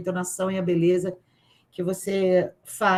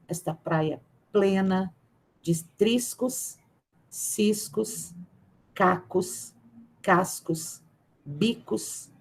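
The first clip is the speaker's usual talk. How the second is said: careful, lingering read of a poem; slower than usual. Acted. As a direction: give each listed word its own weight. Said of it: "mas eu vou tentar". (leitura cuidadosa de poema, pausada)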